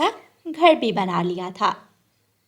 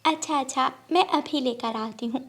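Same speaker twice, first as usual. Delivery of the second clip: softer sparrow voice, fretting; worried sparrow; 2 semitones higher, 5 dB quieter than usual. Acted. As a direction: sparrow telling the parrot about the fussy guest. Sparrow to parrot. (धीमी, परेशान चिड़िया की आवाज़)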